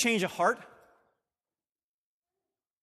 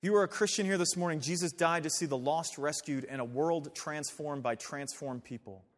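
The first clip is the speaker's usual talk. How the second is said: normal talking voice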